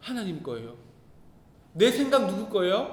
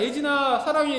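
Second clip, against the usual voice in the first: loving; 5 semitones higher, 7 dB louder than usual. Retold or imitated. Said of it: "이렇게 안아준 게 아니고".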